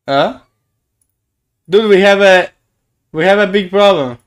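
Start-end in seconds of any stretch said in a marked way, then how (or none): 1.7-4.2 louder, raised alarm; panicked streamer. Real, not acted. Streamer alarmed that his avatar is gone, louder.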